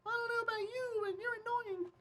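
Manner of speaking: very high, soft squeaky mock voice; high-pitched voice. Shown as a demonstration. Demonstrating how chat voices annoying people, very high. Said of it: "give all of them a high-pitched voice".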